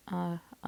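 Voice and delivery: "uh" as an isolated short schwa; schwa sound. Shown as a demonstration. Teacher sounding out a syllable's vowel, schwa sound. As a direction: sound out "uh", then repeat it. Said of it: "I'm kinda hearing that schwa sound".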